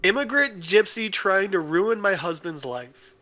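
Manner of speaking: slow, loud accusing rant; drunken accusing rant. Retold or imitated. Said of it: "you guys ready?".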